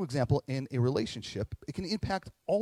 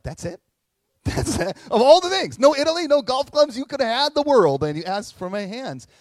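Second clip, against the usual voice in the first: much higher and louder, astonished outburst; stunned disbelief; 10 semitones higher, 11 dB louder than usual. Retold or imitated. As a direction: blurt out amazement at the tiny request. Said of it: "I remember feeling or thinking".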